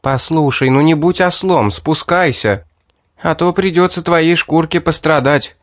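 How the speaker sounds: a hint of a sly girl persuading; girl coaxing him down from the ledge, lightly voiced; Mary voiced lightly. Narrator voices Mary threatening.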